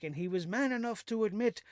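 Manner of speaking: normal talking voice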